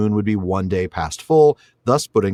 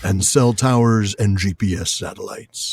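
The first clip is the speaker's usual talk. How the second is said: put-on old sci-fi announcer; slower than usual. Parody of a trailer voice-over.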